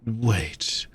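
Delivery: sudden hushed whisper. Acted. Hostess realizing the guest is new, whispered. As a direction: stop short and whisper it.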